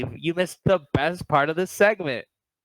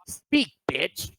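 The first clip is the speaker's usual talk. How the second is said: whispered mean jab at her; 3 semitones higher than usual. Retold or imitated. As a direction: hiss it under your breath like a cold dig. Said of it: "That sounded so mean".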